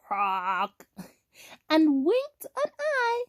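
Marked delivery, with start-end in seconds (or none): 0.1-0.9 low drawn-out croak; toad croak. A narrator's reading. Toad answers Blue, low croak. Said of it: "Toad said".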